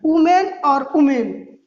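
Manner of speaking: वुमेन said the same way both times; mock student saying वुमेन twice; wrong pronunciation. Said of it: "बच्चे कहते हैं".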